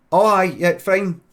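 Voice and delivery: loud, high acted agreement; calling back. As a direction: call back a hurried yes. Acts man calling back in agreement.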